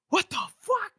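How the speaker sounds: mock shock at a comrade back from the dead; stunned outburst. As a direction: blurt it like a friend seeing a ghost. Soldiers shocked at Wes returning.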